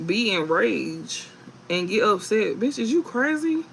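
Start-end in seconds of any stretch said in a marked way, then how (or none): 2.6-3.6 incredulous outburst. Acted. Outraged at the enraged ex.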